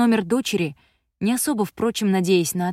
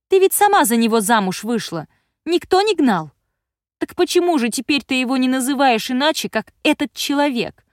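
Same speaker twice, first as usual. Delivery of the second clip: higher, louder furious rant of a grown daughter; angry teen daughter; 6 semitones higher, 4 dB louder than usual. A narrator's reading. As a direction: snap back at a controlling mother. Daughter keeps attacking mother.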